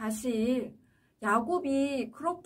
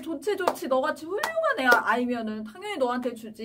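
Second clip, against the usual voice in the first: eager uncle; 3 semitones higher than usual. Acted. Uncle eagerly promising Rachel.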